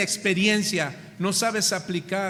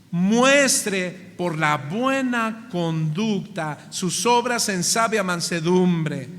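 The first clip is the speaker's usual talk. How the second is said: each word drawn out slowly; deliberate, measured verse reading; slow scripture reading; 3 semitones lower, slower than usual. Shown as a demonstration. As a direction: read it slow and weighty. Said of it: "mire lo que dice".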